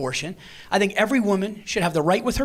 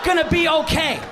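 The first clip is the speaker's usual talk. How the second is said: mock soothing; 5 semitones higher than usual. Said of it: "just be like".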